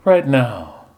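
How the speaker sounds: hint of a swooning belle, slowing; fainting belle. Nun as Portia fans herself, lightly swooning. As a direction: sigh it out faintly. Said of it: "She was fanning herself again".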